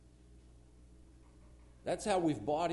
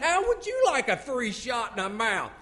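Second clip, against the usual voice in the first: repeating in disbelief; 8 semitones higher, 10 dB louder than usual. Retold or imitated. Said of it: "I said".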